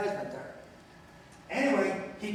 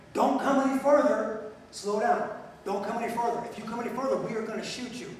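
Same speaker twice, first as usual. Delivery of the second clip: stern warning; 3 semitones higher than usual. Retold or imitated. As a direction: bark the order to stop at the bus. Reading out warning sign.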